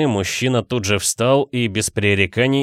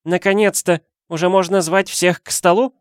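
high, loud exasperated cry; impatient call; 10 semitones higher, 3 dB louder than usual. A narrator's reading. Woman calling out to the cook, impatient and loud. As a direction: let the wait burst out.

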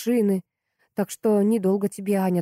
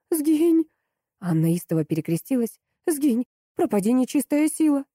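terrified banishing; 6 semitones higher than usual. Acted. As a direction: shout the ghost away in terror. Crossing herself at a ghost.

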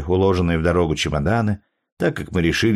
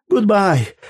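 very high, loud happy farewell; relieved old man shouting goodbye from the car; cheerful shout; 12 semitones higher, 4 dB louder than usual. A narrator's reading. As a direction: call it out gleefully as the car pulls away. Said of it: "крикнул оживившись старик Адамс".

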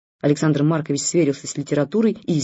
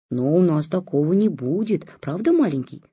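put-on cutesy baby talk. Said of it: "привычно засюсюкал".

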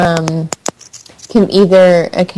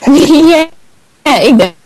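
laughing; 8 semitones higher, 3 dB louder than usual. Real, not acted. Laughing at the listener joke.

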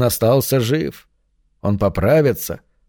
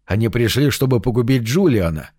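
usual speaking voice

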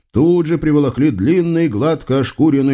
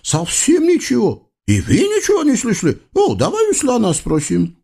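high, singsong eastern tyrant voice; comic sultan; 11 semitones higher than usual. Acted. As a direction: play a pompous, childish sultan. (высокий певучий голос капризного султана)

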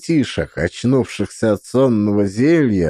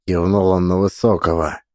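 ordinary delivery, nothing marked

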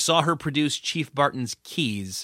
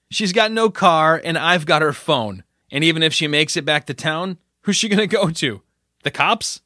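sneering taunt; 4 semitones higher, 4 dB louder than usual. Acted. Terrell sneering, rising.

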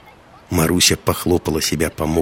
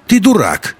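put-on a little girl's sudden, much higher, louder taunt; blurted out; 12 semitones higher, 5 dB louder than usual. A narrator's reading. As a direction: blurt it like a cheeky child. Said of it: "вдруг выпалила маленькая девочка". (выпалила по-детски звонко)

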